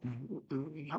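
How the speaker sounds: low, very soft "mm, mm, mm"; quiet, low mock humming; imitated restrained humming. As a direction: imitate someone holding back with tiny hums. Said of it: "막 이러고 있단 말이에요".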